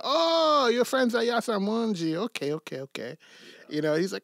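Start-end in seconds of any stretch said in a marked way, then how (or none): 0.0-3.2 excited restaurant man. Retold or imitated. Retelling the restaurant man's reply.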